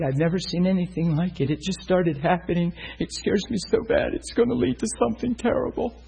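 a mother near tears, voice climbing; frightened crying mother. Retold or imitated. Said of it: "She's bawling".

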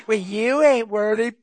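loud, slow, shouted taunt; mocking devil shout. Devil taunts the preacher with a loud, slow shout. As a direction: hurl the insult like a challenge. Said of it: "He said".

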